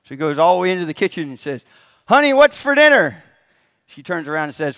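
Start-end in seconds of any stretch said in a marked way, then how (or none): 2.1-3.2 full yell, much higher and louder; loudest yell. Retold or imitated. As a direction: shout it right in her kitchen. Husband yells from the kitchen.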